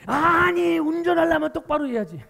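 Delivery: angry yelling driver. Retold or imitated. Driver after a fender bender, yelling at the other driver. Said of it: "소리부터 고래고래 지릅니다".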